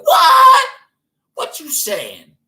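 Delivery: squealing high shout of disbelief; a sudden shriek; shocked cashier. Retold or imitated. Cashier shrieking at the customer, then a slow high disbelief. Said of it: "this bitch be like".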